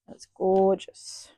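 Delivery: breathy admiring whisper. Real, not acted. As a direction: whisper it in awe, slowly. Admiring fabric.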